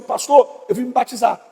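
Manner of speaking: timid churchgoer. Retold or imitated.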